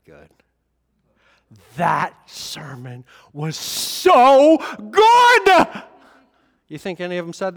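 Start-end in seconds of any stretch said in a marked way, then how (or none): 1.8-5.8 mock praise. Mock disciples praising sermon.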